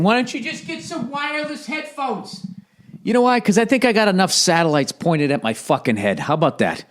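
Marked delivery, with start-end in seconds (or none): 0.0-2.5 high, quiet whiny voice; mocking listeners. Mocking techies who ask about wireless headphones, whiny. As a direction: mimic a smug techie. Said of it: "are probably thinking".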